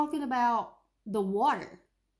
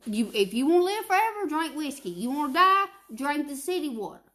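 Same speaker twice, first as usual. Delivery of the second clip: imitating daddy; 4 semitones higher, 4 dB louder than usual. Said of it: "He's like".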